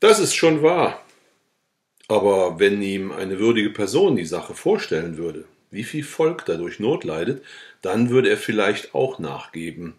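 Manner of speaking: steady, measured reading of a village novel; story narration. A narrator's reading. Reading the peasant novel to listeners, in story narration. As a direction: read the old tale aloud, clear and even.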